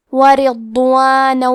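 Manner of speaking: ورضوانا with a light, thin ر and a heavy ض, slow; ورضوانا slowly, thin ر, heavy ض. Shown as a demonstration. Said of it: "حرف را کو پتلی آواز میں پڑھیں گے".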